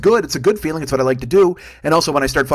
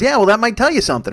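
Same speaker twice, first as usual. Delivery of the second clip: mom's jab; 8 semitones higher, 4 dB louder than usual. Retold or imitated. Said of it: "She goes".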